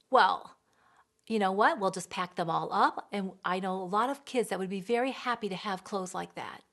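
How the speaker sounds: mock-threatening parent; guilt-tripping. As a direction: shame the child. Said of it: "make them feel guilty".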